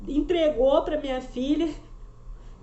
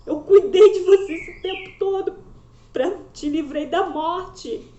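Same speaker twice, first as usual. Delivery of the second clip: tearful voice of God; 3 semitones higher, 4 dB louder than usual. Retold or imitated. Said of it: "como se fosse Deus falando com ela".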